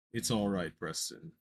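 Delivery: low muffled Hypno. Acted. Hypno reassures boy.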